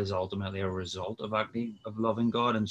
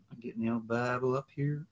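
a quick, half-hearted bad American accent; 3 semitones higher than usual. Guest jokes while fetching his Bible, in a bad American accent. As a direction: toss it off in a jokey fake American accent. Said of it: "That's my bad American accent".

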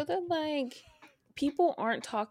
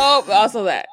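laughing; 2 semitones higher, 15 dB louder than usual. Real, not acted. Laughing agreement.

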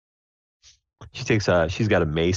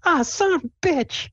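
high-pitched pained squeal of a curse; Sable. Acted. Player's character stubs her toe, high squeaky yelp. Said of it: "she stubs her toe with her mace".

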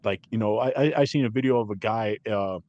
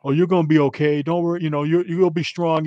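mock consoling; 5 semitones higher, 3 dB louder than usual. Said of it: "the judge starts consoling her".

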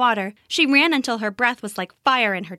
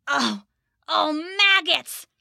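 goblin in pain; 5 semitones higher, slower than usual. Acted. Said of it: "the goblin cried".

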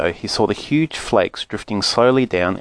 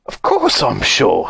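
excited splutter; slower than usual. Acted. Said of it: "spluttered the old man excitedly".

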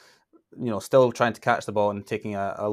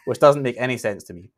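a light mock Scottish accent, a touch louder; 3 dB louder than usual. Shown as a demonstration. Host quoting Brady's rant in a light Scottish accent. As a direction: rant it like a mild stage Scot. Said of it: "I'm gonna do it in a thick Scottish accent".

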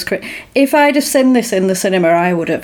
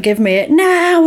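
retold demand; 8 semitones higher than usual.

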